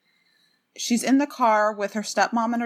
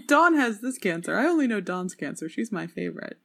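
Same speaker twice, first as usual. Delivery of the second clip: a hint of character voice, played for laughs; lightly put-on voice of an author; Lurleen. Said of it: "That was my Lurleen impression".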